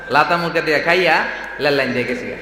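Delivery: mimicked dialect with L in "লাতা" and "লেল"; R turned into L. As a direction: imitate locals, "লাতা মুরগা" with initial L. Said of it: "রায়পুরার লোকেরা রায়পুরা বলতে পারে না".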